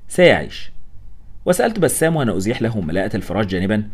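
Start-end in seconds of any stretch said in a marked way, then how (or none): 0.1-0.7 dry sarcasm. A narrator's reading. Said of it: "قلت بسماجة".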